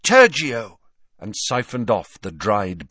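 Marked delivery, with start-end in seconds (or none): 0.0-0.8 louder commanding incantation; spell cast. A narrator's reading. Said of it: "She raised her wand, said".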